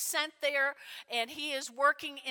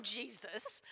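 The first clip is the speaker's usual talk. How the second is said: whispered name; 4 semitones lower, 11 dB quieter than usual. Acted. Brothers finishing their boast to Jesus, whispered. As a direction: drop suddenly to a whisper.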